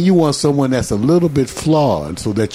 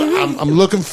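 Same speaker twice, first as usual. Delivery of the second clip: choking on the words; 2 semitones higher than usual. Retold or imitated. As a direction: stammer on I'm, I'm, as if the words stick in the throat. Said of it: "I choked".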